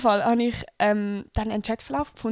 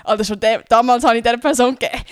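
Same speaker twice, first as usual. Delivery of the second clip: loud joking brag; 9 dB louder than usual. Real, not acted. Laughing brag about telling off.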